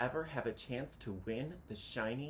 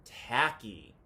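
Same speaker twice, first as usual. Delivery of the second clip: patient; 2 semitones lower, 6 dB louder than usual. Acted. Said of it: "they said patiently".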